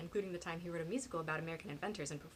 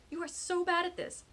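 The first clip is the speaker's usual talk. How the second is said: playful teasing; 11 semitones higher, 6 dB louder than usual. Acted. Teasing during brainstorming.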